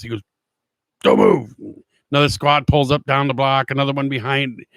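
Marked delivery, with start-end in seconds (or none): 1.0-1.5 a low, louder barked order, half-acted from memory; retold yell. Cop retold ordering the boys to freeze, mock yell. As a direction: bark it like a cop stopping two kids, mock-stern. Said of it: "he yells at us".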